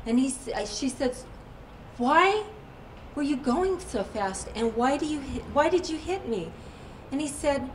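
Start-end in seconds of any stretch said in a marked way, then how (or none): 2.0-6.5 high, pointed opening question, then mildly accusing; retold demand. Woman asks the driver about the accident, mildly accusing. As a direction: press for an answer, pitch jumping up on the questions.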